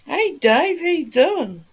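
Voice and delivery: high, loud cheery hello; excited greeting. Real, not acted. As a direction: greet him with delight. Greets viewer in chat.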